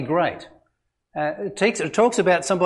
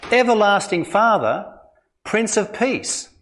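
measured, solemn reading of scripture. Acted. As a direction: read it out as holy words. Reads Isaiah prophecy aloud.

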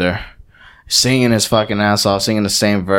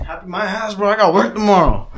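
retold annoyance; 9 semitones higher than usual. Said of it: "And I'm like".

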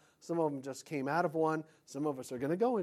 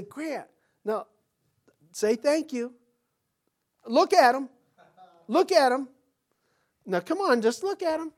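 firm father coaching; 8 semitones higher, 8 dB louder than usual. Retold or imitated. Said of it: "I'll say".

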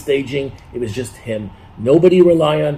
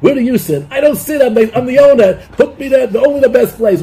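higher-pitched demanding restaurant owner; pushy big shot; 4 semitones higher, 4 dB louder than usual. Retold or imitated. Retelling the comedian's restaurant bit, mock demanding big-shot voice. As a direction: insist on the best table, voice pitched up. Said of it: "you go".

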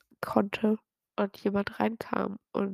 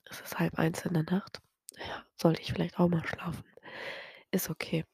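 whispering, much softer; hushed whisper; 7 dB quieter than usual. Real, not acted. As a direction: whisper so sleeping parents stay asleep. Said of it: "ich muss echt leise sein".

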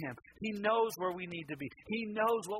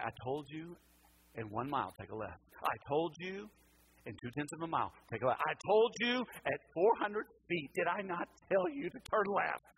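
mad GPS voice. Retold or imitated. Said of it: "I felt like she was mad at me".

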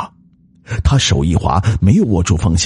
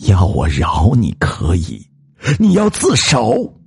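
stern ultimatum, rising high at the end; cold demand; 4 semitones higher than usual. Acted. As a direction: set your terms coldly. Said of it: "女子冷冷地说道". (冷冷地提出条件)

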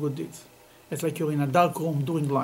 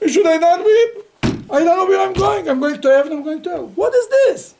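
high, loud, pained cry of a dying sage; anguished crying plea; 11 semitones higher, 8 dB louder than usual. Retold or imitated. Teacher voicing the dying rabbi, high loud anguished wail. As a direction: wail it out as the rabbi afraid of where he goes. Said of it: "And he's crying".

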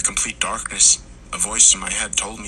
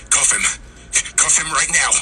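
urgent shout; 7 semitones higher than usual. A narrator's reading. Partner shouting orders at arrest.

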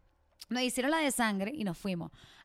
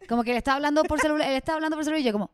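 usual speaking voice

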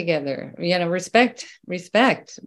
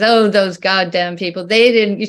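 imitating grandmother; 6 dB louder than usual. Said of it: "she always talked like this".

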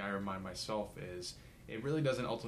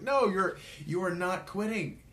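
much higher and louder, each word laid down; firm mentor insistence; 10 semitones higher, 8 dB louder than usual. Retold or imitated. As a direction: set him straight, no arguing. Mentors firmly correcting him.

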